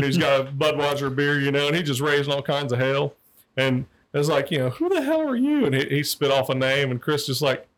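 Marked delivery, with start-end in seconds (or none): 4.7-5.6 high, laughing retort. Retold or imitated. Cop retorting to the punk, high and laughing. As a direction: laugh out the challenge.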